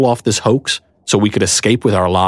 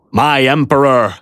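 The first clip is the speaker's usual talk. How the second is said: abashed knight; 4 semitones higher than usual. A narrator's reading. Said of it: "staring in abashed bewilderment".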